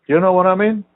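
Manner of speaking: loud, high exasperated demand; pissed off. Real, not acted. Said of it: "pissed me off".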